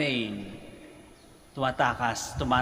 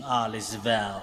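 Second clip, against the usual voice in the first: put-on Bombay accent; 3 semitones lower than usual. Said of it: "kaya ganun yung intonation".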